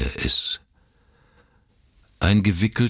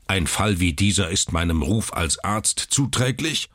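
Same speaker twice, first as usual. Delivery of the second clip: grumbling; 2 semitones higher than usual. Acted. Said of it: "brummte er".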